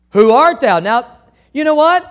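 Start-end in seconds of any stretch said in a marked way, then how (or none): 0.1-0.8 startled question. Acted. Saul asks the voice.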